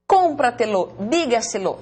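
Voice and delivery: "Cómpratelo, dígaselo" punched on CÓM and DÍ, then falling; sobresdrújula stress. Shown as a demonstration. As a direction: lean on the very first syllable of "Cómpratelo" and "dígaselo". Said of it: "son palabras sobresdrújulas".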